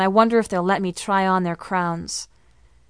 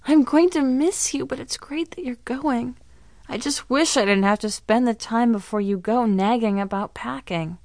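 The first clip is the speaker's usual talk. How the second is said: mock crying; 4 semitones higher than usual. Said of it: "pretends to cry".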